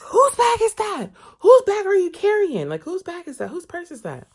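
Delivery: high, loud mocking voice of a prying older woman; scandalized nosy lady. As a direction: grill him like a scandalized auntie. Shocked lady interrogating about bag.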